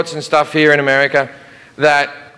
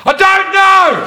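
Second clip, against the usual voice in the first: squeaky, flustered reply; high panicked squeak; 3 dB louder, slower than usual. Retold or imitated. Comedian flustered at security, high squeaky blurt. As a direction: blurt it like a caught kid. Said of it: "And I went".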